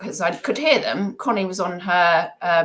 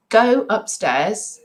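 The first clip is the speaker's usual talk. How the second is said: stern order; 5 semitones higher, much slower than usual. Retold or imitated. Mum ordering kids upstairs.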